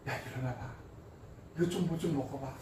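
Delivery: soft, low, lightly acted coaxing; gentle parental coaxing. God to exhausted Elijah like a mother, tender coaxing. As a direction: quietly nudge someone exhausted to eat. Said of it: "하나님도 동일했다라는 거예요".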